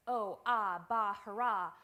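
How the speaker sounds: loud, punchy interjections; energetic exclamations. Shown as a demonstration. Demoing emphatic utterances from a dictionary, loud. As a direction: bark out each cry with energy. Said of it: "the emphatic or energetic utterance".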